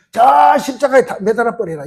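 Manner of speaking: high-pitched mock jeer; mocking crowd. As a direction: lightly act out a crowd calling for punishment. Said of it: "사람 막 조롱합니다".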